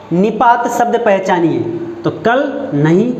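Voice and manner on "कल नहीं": कल stretched slowly with a rise; stress on कल. Shown as a demonstration. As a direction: lean on कल, slow. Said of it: "जोर किस पर पड़ रहा है?". (कल पर ज़ोर देकर धीरे बोलना)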